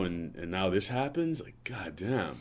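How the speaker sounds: hushed, breathy dismay; whispered dismay. Real, not acted. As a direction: drop to a whisper in disbelief. Lamenting sad news quietly.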